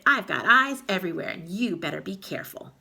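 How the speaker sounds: taunting witch cackle; cackling. Acted. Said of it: "cackled Missus Twit".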